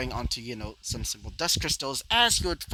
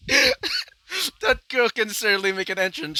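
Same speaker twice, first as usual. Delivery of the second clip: character voice; 7 semitones higher, 5 dB louder, slower than usual. Acted. Character quip after a grand entrance.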